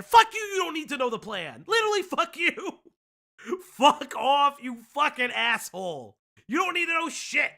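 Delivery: hammed-up telling-off of a friend; mock rant. Mock ranting at absent friend.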